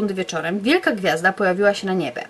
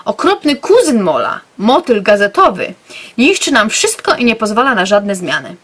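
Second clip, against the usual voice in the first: character announcing; 5 dB louder than usual. Acted. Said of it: "oznajmił nam".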